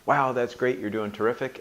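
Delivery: a hint of gushing praise; encouraging angel voice. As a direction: cheer yourself on as the little angel. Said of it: "my little angel devil battle".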